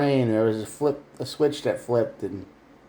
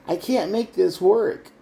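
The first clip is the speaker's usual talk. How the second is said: mock defeated voice; 8 semitones higher, slower than usual. Voicing the viewer's defeated thought.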